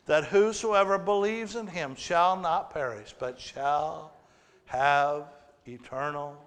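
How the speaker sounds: slow, solemn recital of the verse; solemn scripture reading. Shown as a demonstration. Pastor reciting John 3:16 to the church, slow and solemn. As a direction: read the verse with reverence. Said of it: "the greatest verse".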